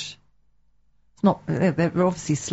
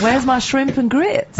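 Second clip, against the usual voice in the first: put-on slow, higher Southern US accent; Savannah accent; 6 semitones higher, slower than usual. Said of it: "you know, Savannah time".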